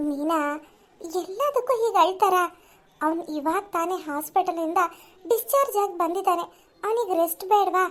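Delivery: mother gently defends her resting son; lightly voiced mother.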